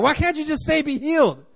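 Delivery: imitating upset religious leaders accusing Jesus of blasphemy; indignant religious critics. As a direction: whine it like a scandalised Pharisee. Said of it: "It's like".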